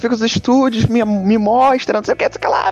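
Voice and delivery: high, eager and breathless questions; excited high-pitched pleading. Retold or imitated. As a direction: gush like an overexcited kid at Disney. Excited fan questioning Vera.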